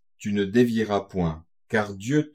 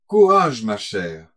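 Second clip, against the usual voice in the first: urgent repeat; 7 dB louder, slower than usual. Acted. Léa repeats her comfort to weeping Dina, urgent and loud. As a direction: push the word Courage out urgently. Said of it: "répéta Léa".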